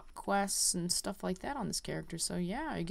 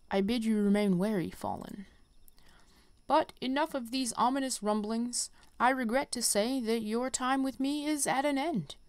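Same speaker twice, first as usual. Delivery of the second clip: lightly voiced stately teacher, measured and grave; a hint of a solemn elder; wise mentor; 4 dB louder than usual. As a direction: read it like a gentle old master bidding farewell. Reads the conjurer mentor's lines.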